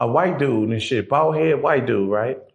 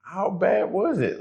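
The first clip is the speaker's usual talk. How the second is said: shocked sympathy; 6 semitones higher, slower than usual. Retold or imitated. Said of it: "So I'm like".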